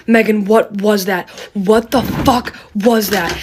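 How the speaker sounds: imitating a friend's alarmed demand; retold alarm. Friend demanding answers from the storyteller after the chase, retold alarm. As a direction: stress the swear, drawing the question out.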